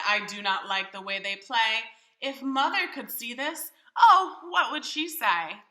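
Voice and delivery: put-on boy frets about mother; worried loud boy. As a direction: fret out loud. Boy voiced in read story.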